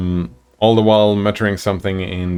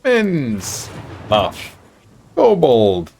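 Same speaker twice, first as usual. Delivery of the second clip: higher, halting creature voice; old kobold voice; 4 semitones higher, much slower than usual. Acted. Old kobold repeats his words to the party, halting creature voice. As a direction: croak out broken words like an old lizard. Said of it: "the old kobold says".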